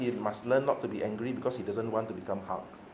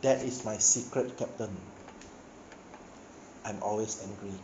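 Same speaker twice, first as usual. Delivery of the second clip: a calm, quiet Banner line; preacher retells Banner calmly answering Captain America, calm and quiet; 3 semitones lower, 4 dB quieter than usual. A narrator's reading. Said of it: "calmly look at Captain America".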